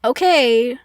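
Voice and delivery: pause, then dismiss it; so over it. Retold or imitated. The Persian answering Eric's dying news, so over it. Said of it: "he's just so over it".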